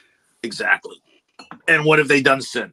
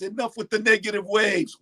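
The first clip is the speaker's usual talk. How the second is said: Oddball quote; 6 semitones higher than usual. Retold or imitated. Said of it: "I try to tell that to my friends".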